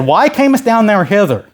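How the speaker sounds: lightly acted reproach; mildly mad. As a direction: read it as a touch indignant. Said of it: "He gets mad at him".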